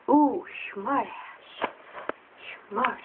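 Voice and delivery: slow sarcastic tease. Retold or imitated. Teasing the kid.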